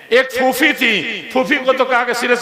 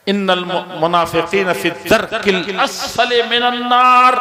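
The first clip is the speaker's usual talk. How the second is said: Quranic recitation. Acted. Quranic verse recited in sermon.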